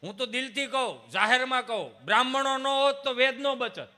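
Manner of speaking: high, loud sermon voice; fervent preaching. Acted. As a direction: preach the message to the crowd. Preaching at full force.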